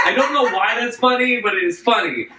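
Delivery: normal talking voice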